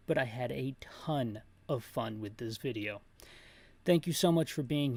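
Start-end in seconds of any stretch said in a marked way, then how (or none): 0.1-3.0 soft breathy whisper, almost secretive; whispered aside. Real, not acted.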